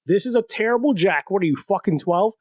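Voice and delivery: New Yorker scolding a driver over the jack; mock New Yorker. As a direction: chew them out like a rough helper. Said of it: "He's like".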